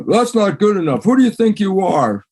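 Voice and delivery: a light take on a disapproving parent; scolding parent. Retold or imitated. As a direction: voice the parent cutting the child down. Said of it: "most of us go".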